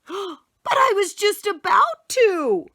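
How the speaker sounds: put-on high, slow pleading child voice; whiny child. Boy protesting to his mother, whiny high child voice. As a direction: drag it out like a kid protesting.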